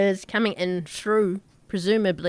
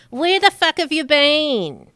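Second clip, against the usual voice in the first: louder, higher mock scolding; half-joking angry greeting; mock-angry Orla; 6 semitones higher, 5 dB louder than usual. Orla scolds Tal while hugging, mock angry.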